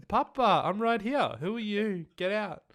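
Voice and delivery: put-on high, loud bewildered old person; mock confused grandparent. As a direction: shoo away your own grandkid. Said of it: "acting confused granny".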